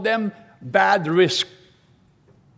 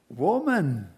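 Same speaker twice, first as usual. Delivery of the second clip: quiet, gentle "Woman." said softly; "Woman." spoken low and tender to comfort; 4 semitones lower, 3 dB quieter than usual. Shown as a demonstration. Preacher showing a comforting tone: "Woman." soft and gentle. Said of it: "How we say a word ... makes all the difference".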